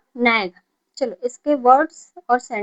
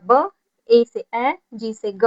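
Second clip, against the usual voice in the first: slow sounding out; slower than usual. Shown as a demonstration. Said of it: "तो इसे क्या पढ़ेंगे?".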